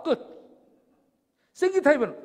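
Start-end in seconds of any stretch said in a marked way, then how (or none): none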